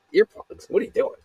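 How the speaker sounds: high-pitched mock disbelief at someone offering earplugs; mock disgust. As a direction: scoff in a put-on high voice. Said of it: "they look at me in disgust".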